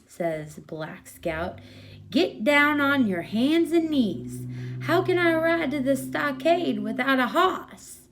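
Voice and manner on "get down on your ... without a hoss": put-on a boy thrilled to ride his horse; excited bossy kid. Kid commands Bill to be horse.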